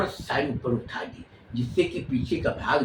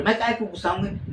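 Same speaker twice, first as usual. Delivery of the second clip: teasing high denial; 5 semitones higher, faster than usual. Acted. Bhabhi repeats her playful denial.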